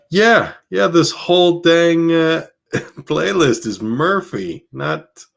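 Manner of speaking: high laughing disbelief; amused disbelief. Real, not acted. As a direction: laugh at your own mistake. Discovering whole playlist misspelled.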